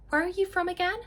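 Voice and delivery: high-pitched mock teacher voice; pointed teacher question. Spanish teacher questions a student about home, pointedly.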